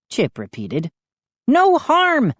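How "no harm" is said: high furious shriek. A narrator's reading. Mindy shrieking at gnomes who dragged her, outraged. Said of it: "Mindy shrieked".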